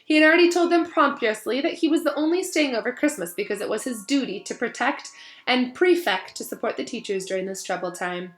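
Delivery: put-on lively read-aloud to children; story reading. Teacher reading Harry Potter to her class, animated storytelling.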